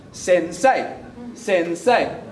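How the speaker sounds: SENSEI broken into sen, then say; two separate syllables. Shown as a demonstration. Teacher mocking a two-beat technique, SENSEI in two syllables. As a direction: split SENSEI into two distinct beats. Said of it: "We don't go".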